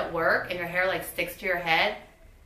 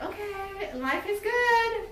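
own retold reaction; 13 semitones higher, much slower than usual. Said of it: "I'm like".

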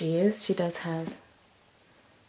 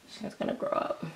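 soft breathy whisper; hushed aside to the doll; 8 dB quieter than usual. Real, not acted. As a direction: say it like a little secret.

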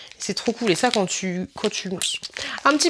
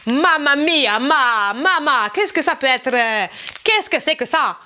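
put-on Italian accent; slower than usual.

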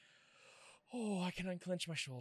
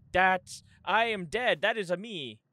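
louder shocked exclamations; stunned loud disbelief; 14 dB louder than usual. Real, not acted. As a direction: realise it's your own body. Shock at own corpse.

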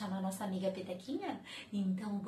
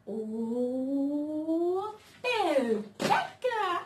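squeaky call; 5 semitones higher, 6 dB louder, much slower than usual. Acted. Calling puppet in put-on voice.

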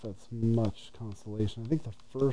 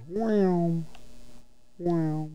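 amazed; 8 semitones higher, much slower than usual. Real, not acted. Admiring the level scenery.

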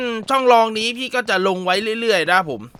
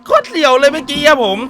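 shaken excitement; 6 semitones higher than usual. Real, not acted.

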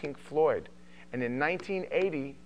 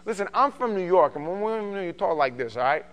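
New York talk; New York accent; 3 semitones higher, 4 dB louder than usual. Shown as a demonstration. Showing how Queens talks, New York accent. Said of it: "This is how we talk".

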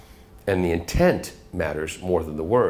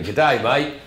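quick Australian greeting, lightly done; Australian accent; 5 semitones higher, 3 dB louder than usual. Shown as a demonstration. Host demos his range with a casual Australian accent. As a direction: toss off a breezy Australian hello. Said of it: "or to the Australian".

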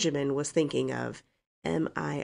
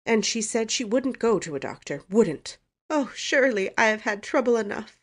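higher, aggrieved, plaintive voice; moaning; 6 semitones higher, 3 dB louder than usual. A narrator's reading. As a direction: lament your troubles as if near tears. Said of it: "moaned Missus Frederick".

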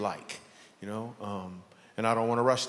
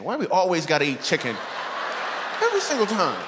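exasperated complaint; 5 semitones higher than usual. Real, not acted. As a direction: vent like it still annoys you. Complaining about church chicken.

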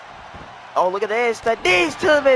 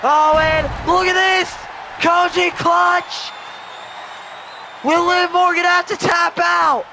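excited call; 4 semitones higher than usual. Real, not acted. Commentator to the crowd, excitedly calling a submission hold. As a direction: call it like the match could end here.

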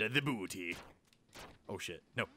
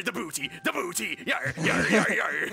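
hammy pirate growl; 4 dB louder than usual. Pretend. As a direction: ham up a pirate chant. Pirate chant in game.

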